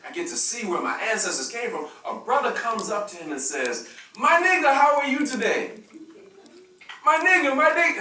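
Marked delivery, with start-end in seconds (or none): 4.2-5.7 high, loud, beaming imitation of an African man's greeting; cheerful imitation of a local man, high and loud; mock African greeting. 7.1-8.0 high, loud, beaming imitation of an African man's greeting; cheerful imitation of a local man, high and loud; mock African greeting.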